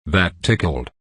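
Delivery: low, understated growl; a mild growl of mock amusement. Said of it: "I growl".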